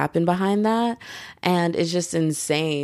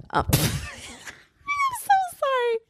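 laughing apology; much slower than usual. Real, not acted. Embarrassed after botched accent.

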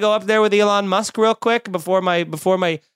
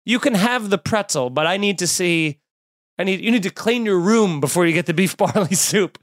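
scolding parent; 2 semitones higher than usual. Retold or imitated. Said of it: "I thought she was just scolding me".

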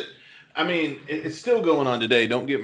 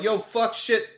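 a higher mock Boston yell of swears; Boston accent; 5 semitones higher than usual. Boston guy cursing at a famous guitarist, mock Boston shout. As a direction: ham up the Boston cussing. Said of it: "and I'm like".

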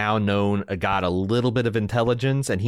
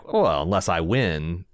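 deadpan; 5 semitones lower than usual. Retold or imitated. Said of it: "when he deadpans back".

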